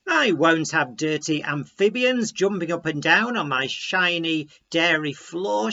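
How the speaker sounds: stern, loud scolding farmer's wife. Acted. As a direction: tell the frogs off sharply. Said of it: "she scolded".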